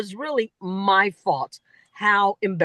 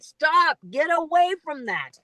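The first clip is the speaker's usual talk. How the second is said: much higher, fed-up plea; exasperated stop; 7 semitones higher than usual. Retold or imitated. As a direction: wave the cliché away in mock exasperation. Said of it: "I'm like".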